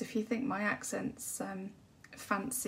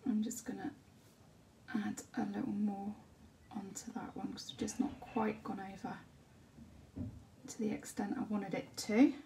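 whispered painting commentary. Acted. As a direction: breathe the words as you paint.

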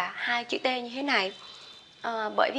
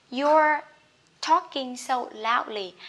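loud you're; 3 semitones higher, 5 dB louder, slower than usual. Shown as a demonstration. Example about loud talking.

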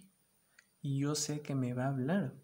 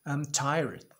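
mock tired; 5 dB louder than usual. Shown as a demonstration. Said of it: "Tired significa cansado".

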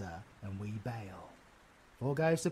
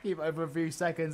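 mocking echo; much faster than usual. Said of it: "that wouldn't be no use".

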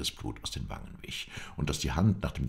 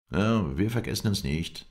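defensive; 6 semitones higher, 6 dB louder than usual. A narrator's reading. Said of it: "verteidigte sich Ahmad al-Gandur".

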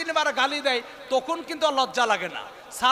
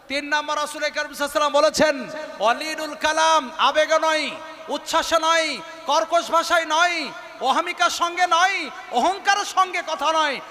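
louder, raised preacher's cadence; impassioned preaching; 2 semitones higher, 3 dB louder than usual. Acted. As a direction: drive each point home to the congregation. Preaches at full force. (জোরালো ওয়াজের সুরে)

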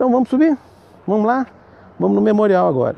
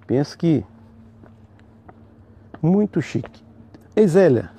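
winded from climbing stairs; slower than usual. Real, not acted. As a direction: talk while climbing steps. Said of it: "Tô subindo as escadas aqui".

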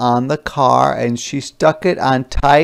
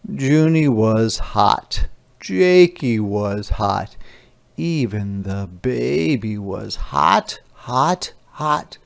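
slow, drawn-out read-aloud voice; storybook reading; 2 semitones lower, slower than usual. A narrator's reading. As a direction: read it slowly to the kids. Reads picture book aloud.

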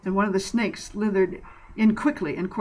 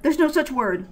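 dismissive; 8 semitones higher, 3 dB louder than usual. Acted. Kevin dismisses the word.

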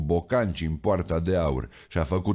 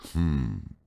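low thoughtful hum; 4 semitones lower than usual. A narrator's reading. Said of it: "mormăi Domnul".

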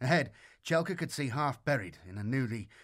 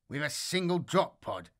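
sneering; 2 semitones higher than usual. Acted. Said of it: "De Vere sneered".

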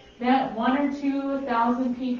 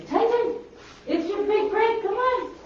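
high-pitched sweet talk to a dog; high coaxing pet voice; 12 semitones higher, 4 dB louder than usual. Real, not acted.

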